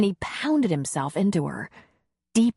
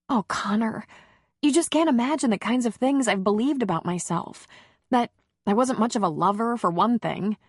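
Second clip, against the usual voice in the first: higher, lightly voiced woman confiding; heroine's voice; 5 semitones higher than usual. Heroine confessing old doubts to Connor, higher woman's voice. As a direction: raise the pitch into the heroine, vulnerable.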